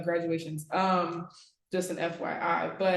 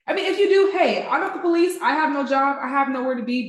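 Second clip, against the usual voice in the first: laughing while talking, a bit higher; laughing joke; 4 semitones higher, 5 dB louder, faster than usual. Real, not acted. Teasing students about long speeches, laughing.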